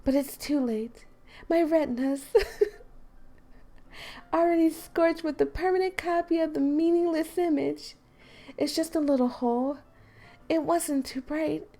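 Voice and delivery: game character reading her poem aloud; Monica's voice. Acted. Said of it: "Supposed to be reading it in Monica's voice".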